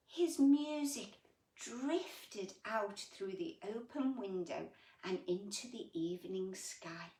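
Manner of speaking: storybook voice for little ones; gentle picture-book reading; reading to children. A narrator's reading. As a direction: read it like bedtime story time. Reads picture book aloud.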